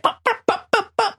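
little mock electric pops; imitated sparking pops. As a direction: pop it out like sparks from a wire. Imitating sparking wire sounds.

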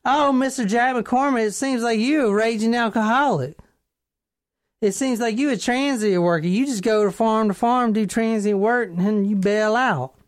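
put-on dismissive cop with a country accent. Police dismissing a drifter's tip, put-on country accent. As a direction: belittle the caller in a country accent.

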